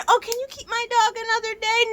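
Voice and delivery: high, loud whiny client voice; mocking client. Mocking a dog owner who asks for another day, high and whiny. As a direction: mimic a needy client asking for a favour. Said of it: "Instead of just being".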